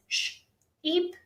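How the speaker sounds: "Sh-" then "eep" said apart with a pause; teacher modeling "Sh-" ... "eep" for the kids; split onset and rime. Shown as a demonstration. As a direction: break it into "Sh-" and "eep". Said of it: "you would say to the kids".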